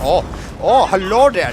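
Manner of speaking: loud startled hello; surprised. Real, not acted. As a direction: caught off guard, spotting an enemy. Spots enemy tank.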